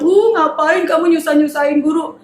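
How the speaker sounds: lightly voiced mocker; a hint of a scornful crowd. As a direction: sneer mildly at the father. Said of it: "Orang-orang bilang".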